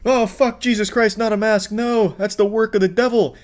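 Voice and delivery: high mock-panicked outcry; mock horror. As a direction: pretend to be scandalized. Mocking the anti-masker's panic.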